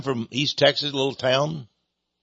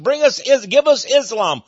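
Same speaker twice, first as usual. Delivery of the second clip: mock crowd demand; 9 semitones higher, 5 dB louder than usual. Voicing a crowd demanding Islam.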